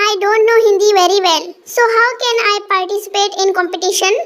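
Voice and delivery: very slow, careful English. Acted. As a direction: drag out each English word. England-raised boy speaks English.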